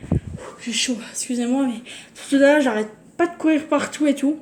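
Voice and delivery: out of breath from running around; puffing between words; gasping for air. Real, not acted. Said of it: "je suis essoufflée".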